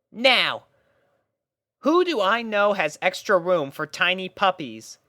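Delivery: a pony captain lining up her troops; Rainbow Dash voice, bossy and bright. A narrator's reading. Rainbow musing.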